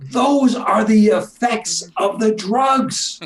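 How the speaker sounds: laughing through the words; a real laugh breaking into the line; amused laugh while setting the record straight. Real, not acted. Laughing while correcting a term.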